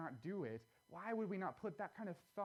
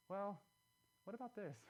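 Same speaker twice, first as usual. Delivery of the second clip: calm question; 4 semitones higher than usual. Retold or imitated. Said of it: "very calmly say".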